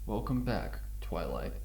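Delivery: a lurking monster greeting. Acted. Monster greeting Twilight, low and menacing.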